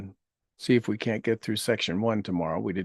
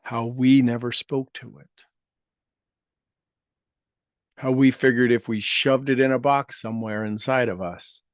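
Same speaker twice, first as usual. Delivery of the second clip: guided meditation; slower than usual. Acted. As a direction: gently lead listeners through healing words.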